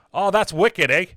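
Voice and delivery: attempted Boston accent, laid on; thick Boston accent. Reviewer mocking the actor playing a priest, in a Boston accent. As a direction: put on a broad Boston accent. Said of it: "he lays on the thickest Boston accent".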